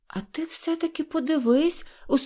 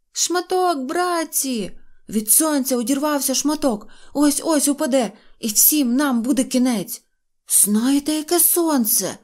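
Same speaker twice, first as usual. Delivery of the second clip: shouting; 5 semitones higher than usual. Acted. Neznayko keeps yelling warning.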